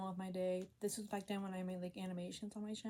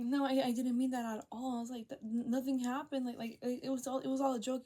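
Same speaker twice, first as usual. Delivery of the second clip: raised, stammering protest; re-enacted flustered backpedalling; frantic denial; 4 semitones higher, 4 dB louder than usual. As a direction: protest higher and fast, tripping over words. Retold frantic denial to mom.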